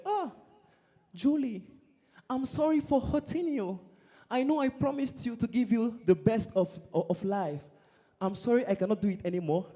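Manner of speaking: soft farewell apology; mild mock sorrow. Scammed man says goodbye to Julie, mildly acted sorrow.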